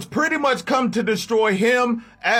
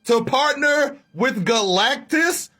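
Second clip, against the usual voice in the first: higher, shouted betrayed outrage; furious Bill; 5 semitones higher than usual. Acted. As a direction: yell it in disbelief at a traitor. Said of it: "smacking the shit out of Thor like".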